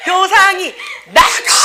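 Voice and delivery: high, loud, stretched-out yell; hammed-up shouted order, laughing through it; mock furious shout. Sibling throws the other out, mock shouting.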